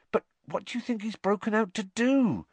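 high-pitched anxious landlady; acted alarm held high; alarmed question. A narrator's reading. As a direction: ask urgently, pitched far up.

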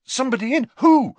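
loud, high, startled questioning; urgent demand. A narrator's reading. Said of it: "demanded Harry".

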